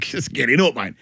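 cheerful push to get stuck in; urging him on. Retold or imitated. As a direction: hurry him along to eat. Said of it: "We're like".

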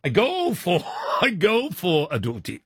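put-on accidental slide into Spanish accent; badly faked Spanish accent with chuckles. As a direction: drift into mock Spanish. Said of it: "Oh, that, that, that's Spanish".

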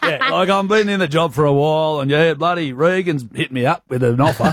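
lightly put-on country bush accent; bush Aussie accent. Shown as a demonstration. Host rehearsing a fake job-referee call, bush accent. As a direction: put on a bit of farmer-boy bush accent. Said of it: "You know, a bit of that".

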